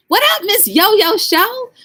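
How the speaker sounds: high, slow, drawn-out announcement; excited welcome. Real, not acted. Welcoming a chat member on stream, high and drawn out. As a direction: stretch it out like announcing a guest.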